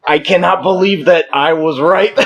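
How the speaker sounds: high-pitched, on the edge of laughter; laughing disbelief. Real, not acted. Joker learning the running joke was true, laughing disbelief. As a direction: say it breaking up into real laughter.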